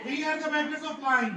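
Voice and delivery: slow, laughing mock translation; laughing slow joke. Shown as a demonstration. Teacher jokes to class, slow and laughing. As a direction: spell it out slowly, chuckling. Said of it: "slow joking translation with laugh".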